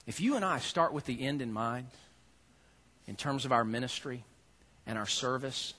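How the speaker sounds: soft, earnest hush; quiet emphasis. Shown as a demonstration. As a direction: draw them close with a hush. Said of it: "Listen closely".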